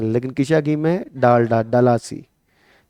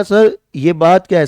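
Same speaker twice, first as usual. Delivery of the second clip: student asking; 4 semitones higher, 6 dB louder than usual. Retold or imitated. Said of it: "अब आपने कहा".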